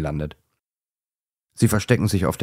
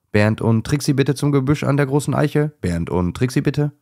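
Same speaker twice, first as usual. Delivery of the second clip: loud, higher call across the garden; 7 semitones higher, 3 dB louder than usual. A narrator's reading. Hedgehog calling the hiding dogs back, loud. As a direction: call them back to the oak.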